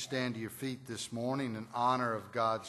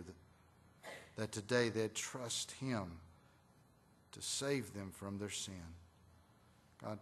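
prayer. Real, not acted. Pastor leads congregational prayer.

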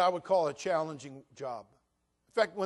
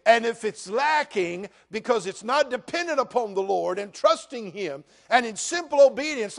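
louder and higher, the preacher climbing to a shout; full-force preaching; 5 semitones higher, 12 dB louder than usual. Acted. Pastor warning the congregation about a storm of faith, preaching loud.

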